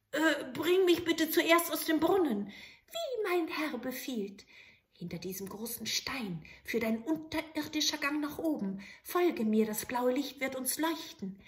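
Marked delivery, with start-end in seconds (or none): 2.5-11.4 high, eager little goblin voice; bow and ask for orders; little grey man. Acted. Grey manikin appearing to the soldier, eager.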